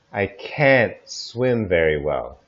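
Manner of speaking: American can't with flat æ vowel, said slowly; American kæ̃nt, stressed; American English. Shown as a demonstration. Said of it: "American English would say".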